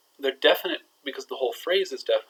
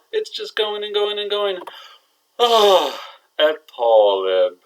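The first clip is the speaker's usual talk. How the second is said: building suspense; 4 semitones higher, 7 dB louder than usual. Shown as a demonstration. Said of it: "waiting on the edge".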